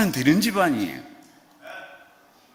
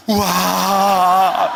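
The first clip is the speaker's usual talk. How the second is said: wow; 4 semitones higher, 8 dB louder than usual. Shown as a demonstration. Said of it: "시작".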